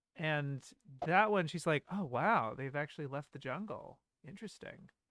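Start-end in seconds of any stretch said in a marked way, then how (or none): 1.9-4.0 put-on inquisitive, curious tone. Comparing readings of a Nausicaa line, imitating an inquisitive tone. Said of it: "more inquisitive".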